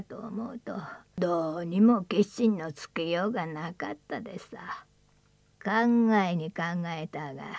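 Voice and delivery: put-on an old man remembering, hushed; creaky wise old man. Old man's voice in story.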